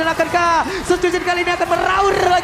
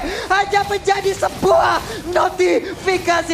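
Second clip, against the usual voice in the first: excited; 3 semitones higher, 3 dB louder than usual. Real, not acted. Hype call of a kill.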